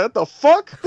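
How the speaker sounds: high, loud half-laughed disbelief; mock baffled. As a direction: laugh out a baffled what the fuck. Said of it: "He's like".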